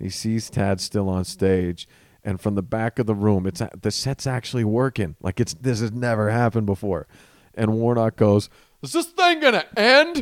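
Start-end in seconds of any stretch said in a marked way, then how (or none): 8.8-10.2 very high, loud, booming, exasperated boisterous yell. Retelling how an upset man yelled from the back of the room: imitating a loud boisterous yell. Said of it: "he yells. He yells really loud and boisterous".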